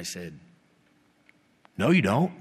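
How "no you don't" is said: firm refusal. Retold or imitated. Pastor refuses a stranger's prophecy.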